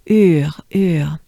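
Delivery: "Ur, ur" whispered with rounded lips; whispered exaggeration. Shown as a demonstration. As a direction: overdo "Ur" as a whisper.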